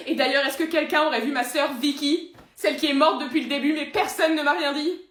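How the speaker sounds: loud, pleading self-pity; aggrieved outburst. Acted. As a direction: protest desperately as the forgotten ordinary guy. Parodie de Matt, humain plaintif.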